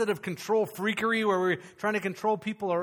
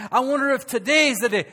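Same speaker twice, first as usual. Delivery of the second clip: a hint of nervous fretting, higher and louder; mock fretting branch; 4 semitones higher, 4 dB louder than usual. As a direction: playfully act out a worried branch. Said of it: "branches aren't sitting there going".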